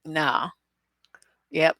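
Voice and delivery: normal talking voice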